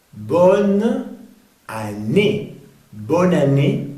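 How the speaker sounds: "bonne année" split, then joined; careful French model of "Bonne année"; pronunciation demo. Shown as a demonstration. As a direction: sound out the N in "bonne". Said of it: "vamos a ver cómo se pronuncia".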